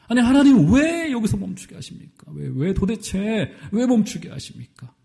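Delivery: pleading with God, then slowing down; complaining prophet. Acted. Elijah complains to God why it stopped, pleading then slow.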